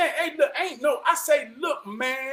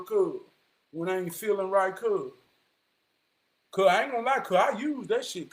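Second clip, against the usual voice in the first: imitating his friend; 6 semitones lower than usual. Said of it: "and this is how he said".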